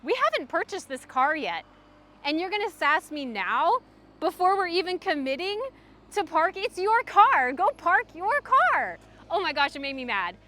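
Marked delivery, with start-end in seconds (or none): 0.0-9.0 indignant scolding. Retold or imitated. Scolding the sassy car dealer, building indignation. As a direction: tell him off, rising to the last line. Retelling her reply to rude dealer.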